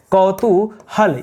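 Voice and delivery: कौतूहल drawn out syllable by syllable; slow spelling demo. Shown as a demonstration. Teacher showing students how to write it, slow dictation. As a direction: spell out कौतूहल very slowly, each sound clear. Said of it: "इस तरह से दोस्तों लिखा जाता है कौतूहल".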